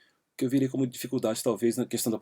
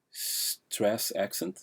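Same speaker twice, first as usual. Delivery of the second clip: slow, deliberate term; 3 dB quieter, much slower than usual. Shown as a demonstration. Teacher naming the term for the class, very slow. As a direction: stress accent said very slowly. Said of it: "o termo certo em linguística".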